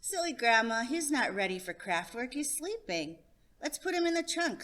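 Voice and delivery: put-on a kid correcting grandma; insistent child.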